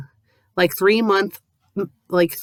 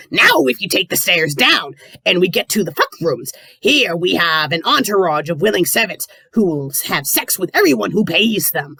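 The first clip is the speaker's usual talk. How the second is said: pirate voice. Acted. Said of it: "I'll try to do the pirate voice".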